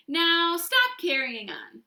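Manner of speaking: loud slow whine; whining. A narrator's reading. Dana whining at the teacher, loud and slow. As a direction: drag out the complaint. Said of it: "Dana whined".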